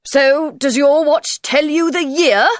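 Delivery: Hatter voice. Acted. Hatter asks.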